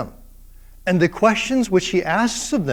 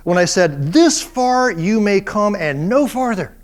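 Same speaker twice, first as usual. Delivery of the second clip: God proclaiming; 2 semitones higher, 3 dB louder than usual. Retold or imitated. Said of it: "dripping with sarcasm".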